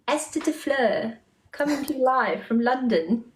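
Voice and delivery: put-on London accent, live presenter intro. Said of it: "with that accent".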